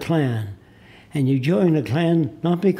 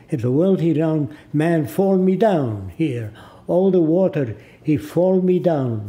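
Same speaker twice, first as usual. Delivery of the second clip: put-on slow, insistent Arab-accented broken English; imitating Arab accent; 3 semitones higher than usual. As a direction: mimic the shopkeeper's Arab-accented argument. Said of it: "I'm imitating his voice".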